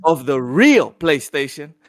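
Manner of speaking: upbeat announcer read, stretching the special guest build-up; hyped-up show intro; podcast host intro. Acted. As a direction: open the show like an eager host.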